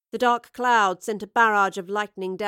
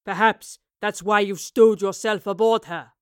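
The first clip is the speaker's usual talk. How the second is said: mocking captain; 8 dB louder than usual. A narrator's reading. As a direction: sneer at her interest in the ship. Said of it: "he observed mockingly".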